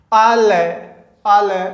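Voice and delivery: a hint of cooing; soothing a baby. Shown as a demonstration. Teacher showing how parents calm a crying baby. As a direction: lightly coo आले आले like hushing a child. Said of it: "इसका आप उच्चारण करो".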